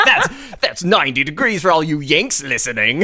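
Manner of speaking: a light, laughing mock British accent; half-hearted British broadcaster accent. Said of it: "It's my British accent".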